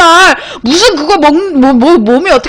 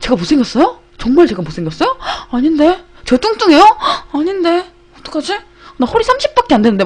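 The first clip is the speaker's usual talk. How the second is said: softer, hurt-sounding mock protest; mock wronged innocence; 4 semitones higher, 4 dB quieter than usual. Replaying the deadpan act for the survey man, mock aggrieved. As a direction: ask as if deeply wronged, straight-faced. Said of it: "진짜 억울하다는 표정으로".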